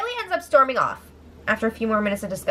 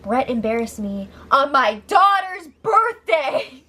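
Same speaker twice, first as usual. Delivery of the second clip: tearful complaint. Retold or imitated. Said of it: "she brings up".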